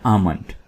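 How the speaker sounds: "आमंड" with the L left silent. Shown as a demonstration. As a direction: say "आमंड" as AH-mund, no L sound. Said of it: "इसको आपने silent रखना है".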